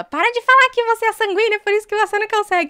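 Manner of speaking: high, loud scolding imitation; mimicking Gui. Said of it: "O Gui fala". (imitando o Gui, voz aguda e alta)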